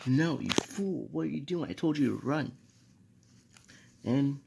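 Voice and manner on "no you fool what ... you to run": higher, louder mock scolding yell; retold yell. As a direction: yell it as an alarmed teacher, half-acted. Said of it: "yells out to Naruto".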